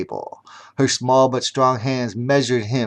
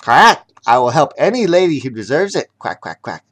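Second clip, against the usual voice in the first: proud duck; 4 dB louder, faster than usual. Acted. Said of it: "spoke his new policy proudly".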